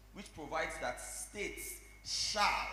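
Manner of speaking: slow, weighty stress on "shall". Real, not acted. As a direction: lean hard on the word "shall", drawn out slowly. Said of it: "emphasis on the word".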